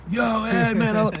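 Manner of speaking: high-pitched excited fan calling out; freaking-out fan. Retold or imitated. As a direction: imitate a starstruck fan hailing a celebrity. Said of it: "freaks out and goes like".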